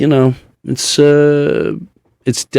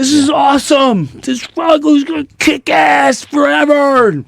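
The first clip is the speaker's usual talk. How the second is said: much higher mock-cheering shout; forced cheer. Husband cheering for his sick wife, high forced shout. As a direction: pump it up, much higher, overdone.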